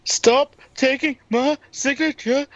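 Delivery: slow talk. Pretend. Wrestler complains about his stolen sandwich, very slow. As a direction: space out every word in mock protest. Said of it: "He's about to talk even slower".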